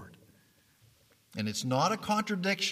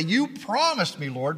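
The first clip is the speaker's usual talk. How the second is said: pleading cry; 4 semitones higher, 4 dB louder than usual. Acted. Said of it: "we can plead to the Lord and say".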